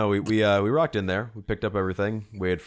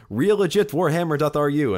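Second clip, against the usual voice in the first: put-on small Russian accent; 9 semitones higher, 5 dB louder than usual. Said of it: "Did you do an accent there?".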